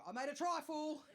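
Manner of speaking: mock-proud host showing off; host proudly unveiling the trifle; proud announcement. Host proudly presents dessert.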